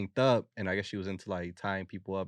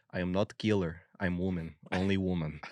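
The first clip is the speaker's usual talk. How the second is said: lightly imitated Russian accent. Reading out the arrested woman's last sentence, in a Russian accent. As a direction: read it with a playful Russian accent. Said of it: "I read it in a Russian accent".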